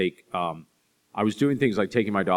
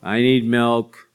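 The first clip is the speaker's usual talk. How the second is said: put-on loud, slow, drawn-out kid's call; higher, drawn-out mock wail for milk; child calling out; 4 semitones higher, 8 dB louder, much slower than usual. Young daughter calling to parents from bed, calling out.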